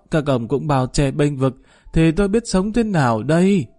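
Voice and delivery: put-on an old woman half-sobbing her grievance, rising at the end; wailing lament. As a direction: wail it out like an old woman throwing herself on the court's mercy. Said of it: "khóc mếu nói". (giọng bà cụ khóc mếu kêu than ăn vạ)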